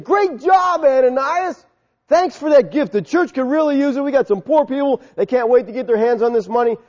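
high, bright-voiced mock congratulations; mock cheerful praise. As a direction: pretend Peter gushing over the gift. Peter's imagined praise, acted.

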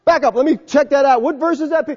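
mock a fussy doubter; a questioner checking the verse; skeptical listener. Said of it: "people weren't standing there saying".

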